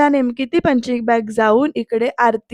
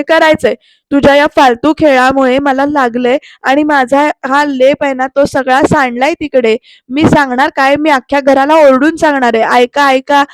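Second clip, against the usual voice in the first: furious threat; 5 dB louder than usual. Retold or imitated. Aarti threatening to shout to the whole house, loud.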